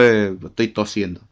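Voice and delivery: ordinary talk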